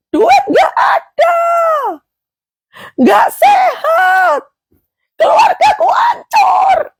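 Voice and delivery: high, slow anguished shouting; stretched, wailing shouts of despair; desperate shout. Acted. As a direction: cry out as if everything is lost. Preacher voicing desperate cries.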